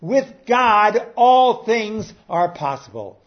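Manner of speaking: preacher restating the verse with force; preaching. Acted. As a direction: proclaim it to the congregation.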